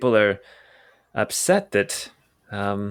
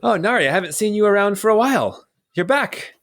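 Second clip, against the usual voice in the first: a higher, friendly barman; plain barman voice; 10 semitones higher than usual. Acted. Barman welcoming Nari back, in a higher friendly voice. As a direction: greet her warmly, no accent. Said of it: "no Irish accent".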